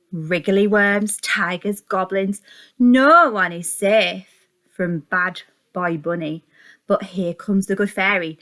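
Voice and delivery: put-on slow, emphatic read-aloud to small children; lively picture-book reading; reading a blurb. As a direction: sell the blurb like a story hook.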